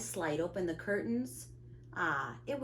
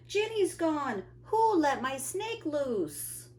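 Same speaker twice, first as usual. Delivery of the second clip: high, loud alarmed cry; panicked schoolkid shouting; 9 semitones higher, 5 dB louder, slower than usual. A narrator's reading. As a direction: call out in alarm, pitch way up. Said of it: "Emily shouts".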